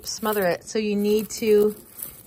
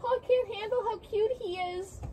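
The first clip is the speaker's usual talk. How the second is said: overwhelmed by cuteness; 10 semitones higher than usual. Real, not acted. Gushing over cute grandchild.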